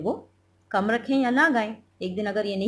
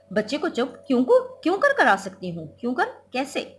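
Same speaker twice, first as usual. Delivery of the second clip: louder, a touch of a flustered scolding wife; hammed-up mother snapping at the child; exasperated wife; 3 semitones higher, 4 dB louder than usual. Flustered wife snaps at husband and child. (झल्लाई बीवी का हल्का सा डांटना)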